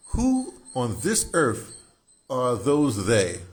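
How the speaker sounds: slow poem reading. Acted. Reading the poem's first line.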